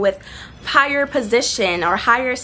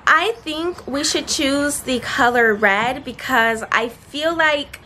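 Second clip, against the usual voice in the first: hedging answer. Shown as a demonstration. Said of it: "let's notice the difference between saying "I think" and "I feel".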